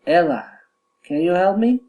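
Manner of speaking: addressing Ella, pitch rising on "help me"; rising direct address. Shown as a demonstration. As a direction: call "Ella", then climb to "help me". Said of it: "rising intonation".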